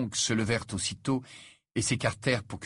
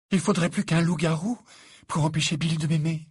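higher, louder indignant declaration; proud defiance; 8 semitones higher, 5 dB louder than usual. A narrator's reading. Fiancée standing up for Bill's love, proud and defiant. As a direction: declare it haughtily, pitched up. Fleur defiantly answers the mother.

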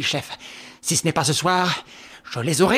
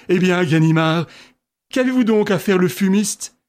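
laughing; 3 semitones higher, 6 dB louder than usual. A narrator's reading. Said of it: "s'écria en riant".

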